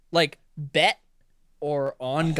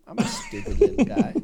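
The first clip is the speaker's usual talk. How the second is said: high-pitched silly voice with a laugh; squeaky silly voice. Pretend. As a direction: squeak it out like a cartoon. Self-mocking squeaky voice, laugh.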